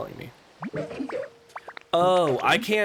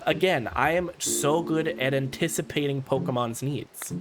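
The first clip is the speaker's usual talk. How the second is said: put-on higher, genteel elderly lady voice; gracious Lapras; 4 semitones higher than usual. Streamer reads Lapras greeting Ditto, a gracious elderly lady. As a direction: play a kindly refined old sea creature.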